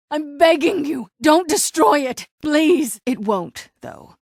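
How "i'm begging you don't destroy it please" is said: louder, rising desperate plea; pleading, near breaking; desperate begging. Acted. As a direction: beg as if her life depends on it. Begs them not to burn tree.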